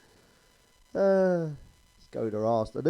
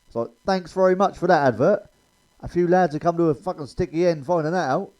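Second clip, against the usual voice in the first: louder, higher mocking rant; 3 semitones higher, 8 dB louder than usual. Real, not acted. Comic ranting at the telly crowd, loud and mocking. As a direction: bellow it like a fed-up punter.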